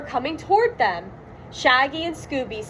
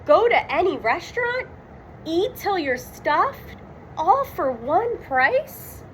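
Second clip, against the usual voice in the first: excited reading; 5 semitones higher than usual. Acted. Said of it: "Shaggy read".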